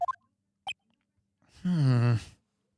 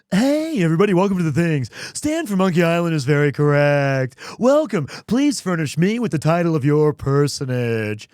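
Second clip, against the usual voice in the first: loud, fast carnival huckster patter; loud pitchman voice; 3 dB louder than usual. Pretend. Streamer voicing Mister White as a loud fast pitchman. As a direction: sell it like a shouting pitchman, fast. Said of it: "Or is he like".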